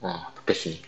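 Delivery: talking while chewing chips; crunching chips. Real, not acted. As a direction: mouth full of spicy chips. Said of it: "Sambil makan keripik pedes ya". (sambil mengunyah keripik)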